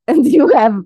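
put-on comic mixed-up Russian accent, ending in laughter; Russian alter-ego accent. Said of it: "your alter ego of Russian".

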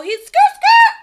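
very high loud skirt skirt; tyre screech imitation. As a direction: screech it like tyres.

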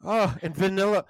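slow, drawn-out menu seduction; mock sexy voice. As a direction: linger on each dessert as if seduced by it. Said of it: "in a sexy voice".

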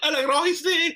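high, cracking with laughter; laughing. Real, not acted. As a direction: say it while cracking up. Repeating the joke while laughing.

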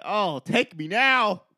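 drawn-out mock agony; slow dramatic plea. Friend imitating the peeing guy, slow hammed-up plea. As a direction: stretch it out like a dying man. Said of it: "He's like".

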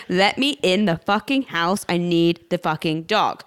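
emphatic word-by-word demand; insistent demand. Retold or imitated. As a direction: press each word at the doorman, retold. Retold demand at the door.

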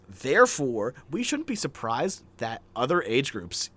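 deliberate read-aloud with punched connectives; earnest review reading. Acted. Host reading a five-star review to co-host, mildly declamatory. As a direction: present it like an argued school essay.

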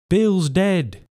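high shout of alarm. A narrator's reading. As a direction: call it out in shock. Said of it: "a voice shouting from the house".

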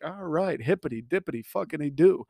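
mock chipper. Acting out his cheerful reply.

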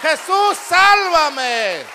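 high, loud plea for life; urgent full-voiced cries; desperate shouting. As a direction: scream for rescue as if dying. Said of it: "hasta que grites".

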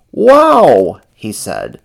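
loud, high excited exclamation; high, thrilled character voice; Ernie's voice. A narrator's reading.

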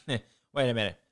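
Wait a minute through a real laugh. Real, not acted.

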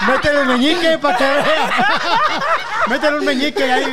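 high, loud words through laughter; laughing. Real, not acted. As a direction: cackle the line out. Laughing at the joke.

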